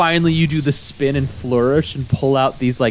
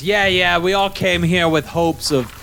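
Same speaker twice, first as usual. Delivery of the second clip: higher, lecturing the new hire; gruff cook lecturing; 3 semitones higher than usual. Acted. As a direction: tell them how it works. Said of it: "she goes".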